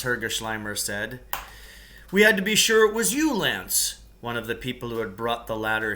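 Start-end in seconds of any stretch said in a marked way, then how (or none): 2.1-4.0 higher, quick, louder apology; cave mate explaining. Acted. Rescuer explaining to Lance why they waited, fast and high. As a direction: justify the wait hurriedly.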